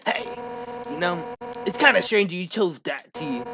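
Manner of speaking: a gruff guard captain turned confiding; Undyne telling a story. Acted. Streamer reading Undyne's backstory to the player, softly.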